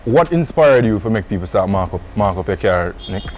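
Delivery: usual speaking voice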